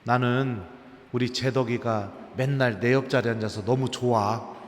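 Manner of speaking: lightly voiced kindly rector; warm confiding. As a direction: tell a student tenderly how glad you are. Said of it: "총장 신부님이 어느 날 저한테 그 얘기 해주시더라고요".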